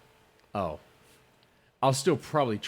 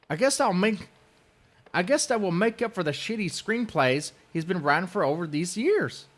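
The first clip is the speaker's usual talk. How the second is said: high, louder sneering mimicry; mocking imitation; 9 semitones higher, 4 dB louder than usual. Mocking the rival's dig at his screenplays, high sneer. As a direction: parrot the rival's jab.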